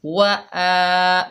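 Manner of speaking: वा आ chanted very slowly with the आ held; slow Quranic recitation. Shown as a demonstration. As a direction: stretch the आ of वा आ for a long beat. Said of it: "खींच कर पढ़ेंगे".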